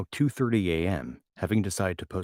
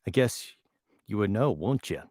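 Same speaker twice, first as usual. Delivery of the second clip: Minnesota accent; 3 semitones higher, 3 dB louder than usual. Shown as a demonstration. Answering a viewer from Minnesota, teasing Minnesota accent. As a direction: tease the chat in a Minnesota voice.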